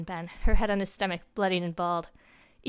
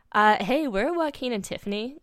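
surprised; 4 semitones higher, 4 dB louder than usual. Acted. Friends missing at bonfire.

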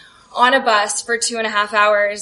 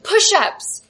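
mock screaming coach; 6 semitones higher than usual. Cheerleader screaming orders at the mascot, high mock yell. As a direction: shout it like an angry cheer coach. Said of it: "she starts screaming at me".

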